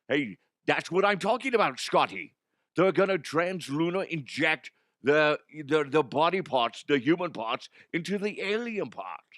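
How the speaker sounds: excited comic character, slurred esses; Connery. Acted. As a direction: butt in eagerly with a lewd theory. Connery character interrupts with innuendo.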